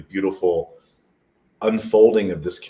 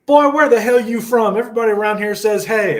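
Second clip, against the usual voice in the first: much higher, loud, hammed-up country man barking; booming mock redneck, fast and high; rural Georgia guy; 10 dB louder than usual. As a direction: play the scornful local sizing up the newcomer.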